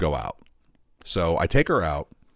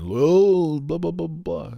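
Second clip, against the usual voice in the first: mock hype; 8 semitones higher, 3 dB louder, slower than usual. Mimics everyone's hype chatter.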